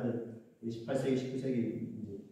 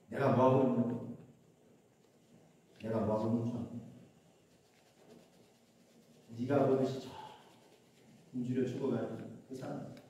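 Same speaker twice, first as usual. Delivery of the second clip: low, soft voice of God answering; a soft low inner voice from God, gently reproving; 5 semitones lower, 6 dB quieter than usual. Retold or imitated. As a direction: speak low and quiet as God stirring the heart. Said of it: "이런 울림이 울려오는 거예요".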